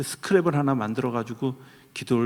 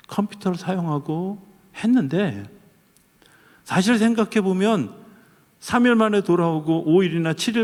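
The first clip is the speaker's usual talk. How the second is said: preaching higher, building toward a point; rising sermon delivery; 5 semitones higher than usual. Acted. Pastor building his sermon to the congregation, higher and intense. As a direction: lift the congregation with a climbing argument.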